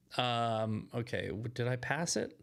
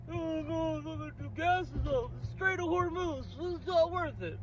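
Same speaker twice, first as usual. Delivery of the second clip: mock whiny complainer; 4 semitones higher than usual. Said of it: "mocking complainers".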